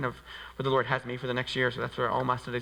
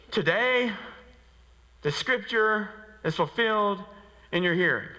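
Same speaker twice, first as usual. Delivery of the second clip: laughing proclamation; 6 semitones higher than usual. Acted. Redone with a laugh.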